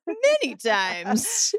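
drawn-out words after a gasp; slow, breathy agreement after a gasp; answering the host's guess with a gasp, then slowly; gasp of recognition. Real, not acted. Host guesses rehearsed words.

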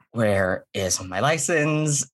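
improv-style performing. Retold or imitated. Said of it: "like, I'm doing an improv set".

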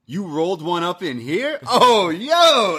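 high incredulous question, bursting into an exclamation; mock amazement. R-Truth hearing of the casket loss, imitated amazement. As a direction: imitate thrilled disbelief, pitch climbing high.

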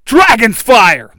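slow, very loud high battle cry; power-up battle cry. Acted. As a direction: bellow the attack name. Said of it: "the Red Ranger yells".

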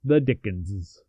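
"The Dickenses" said slowly, each syllable clear; careful plural. Shown as a demonstration. Co-host corrected on the plural, slow and careful. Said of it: "so the plural can't be Dickens".

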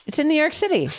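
high voice breaking into laughter; can barely get the answer out for laughing; laughing through it. Retold or imitated. Wife retelling mother-in-law's answer, laughing and high.

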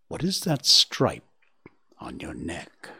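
a lightly voiced calm stern elder; calm authority. The elder challenges boasting Gobo, calm and authoritative. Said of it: "in his calm and authoritative voice".

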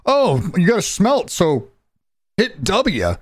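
high-pitched mock instructions; mock chore voice. Gamer mocking tedious crafting steps, high mock voice. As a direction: parody a tedious game prompt up high.

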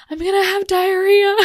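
high, loud wail of alarm; loud high-pitched mock alarm; panicked cry. Panicked announcement during labor.

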